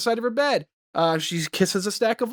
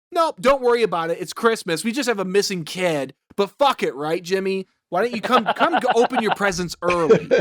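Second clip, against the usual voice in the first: sarcastic mock Rafus. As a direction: sneer it out like a fed-up boss. Imagined pissed-off Rafus, sarcastic.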